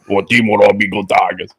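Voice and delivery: lightly voiced Cajun coach; mild coach impression; Coach Ogeron impression. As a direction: talk it like a Louisiana coach. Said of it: "Coach Ogeron on the P B J podcast".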